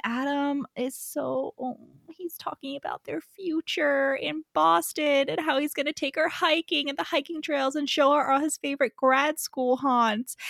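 melting with fondness, voice lifted and hushed; tender gushing. Real, not acted. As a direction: gush softly over a sweet romance. Gushing over Adam's tender future plans.

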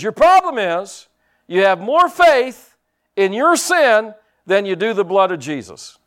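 loud and slow, hammering it home; stern rebuke. Retold or imitated. Pastor rebuking a man in the prayer line, loud and slow. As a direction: scold him with every word. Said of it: "and I yelled at him".

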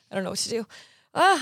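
laughing through a sudden cramp; pained yelp from a foot cramp. Real, not acted. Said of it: "I'm getting a foot cramp".

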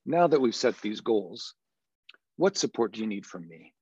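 level question falling at the end; uninviting credible voice; closed flat voice. Shown as a demonstration. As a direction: ask it flat and downward, uninviting. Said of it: "as opposed to".

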